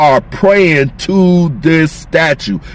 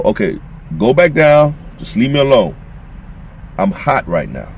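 understated anger, mostly low-pitched, in short separate statements; angry God; 5 semitones lower than usual. Acted. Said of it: "This is how God is angry".

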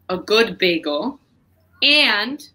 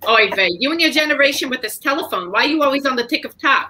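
Cheryl Cohen; 4 semitones higher, faster than usual. Acted. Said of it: "ask you questions as Cheryl Cohen".

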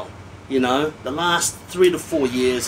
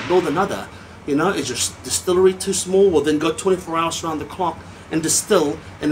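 ranting; 3 semitones higher than usual. Real, not acted. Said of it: "Sorry I'm ranting".

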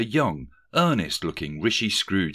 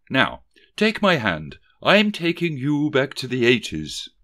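loud, high, hectoring ghost; stern Thatcher scold; 6 semitones higher, 5 dB louder than usual. A narrator's reading. The ghost scolds Rishi for his filthy habits, loud and stern. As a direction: bark at him like a headmistress.

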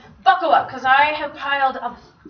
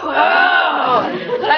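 surprised whoa; 4 semitones higher, 4 dB louder than usual. Real, not acted. Reacting to many students.

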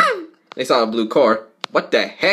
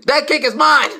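greedy cry; 11 semitones higher than usual. Acted. Character claiming the cake.

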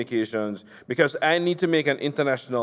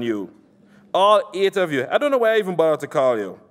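angry politician. Acted. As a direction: chew him out for the failed hit. Nasser insulting on phone.

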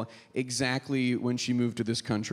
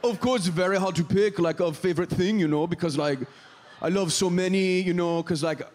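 eager foreign exchange student English; halting, chirpy non-native accent; 2 semitones higher than usual. Acted. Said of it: "what accent I'm doing".

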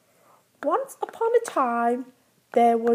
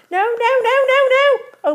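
rising insistent no; 12 semitones higher, 6 dB louder than usual. Real, not acted. Insisting to child.

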